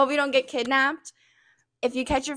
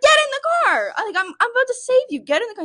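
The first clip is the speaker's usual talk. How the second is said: urgent insisting; 10 semitones higher, faster than usual. Retold or imitated. Urging stranger into car.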